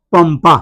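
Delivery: पंपा with the dot sounded as m; anusvara as m. Shown as a demonstration. Teacher showing students how anusvara sounds, पंपा with an m. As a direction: say पंपा with a clear m before the second प. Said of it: "यहाँ पे हुआ म".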